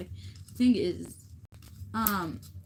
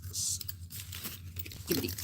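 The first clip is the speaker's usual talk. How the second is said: blurted nonsense; 5 semitones lower, 6 dB quieter, much slower than usual. Real, not acted. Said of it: "I did not say that".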